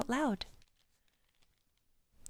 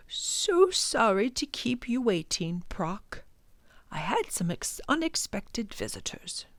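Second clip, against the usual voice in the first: quiet professor; 3 semitones higher than usual. Acted. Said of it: "speaking in a quiet voice".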